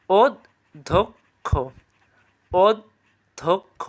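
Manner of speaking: অধ্যক্ষ drawn out very slowly, as od-dhok-kho; careful pronunciation. Shown as a demonstration. Teacher drilling a much-repeated exam word, slow অধ্যক্ষ. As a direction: spell out অধ্যক্ষ by sound, slowly. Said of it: "মনে থাকবে তো?".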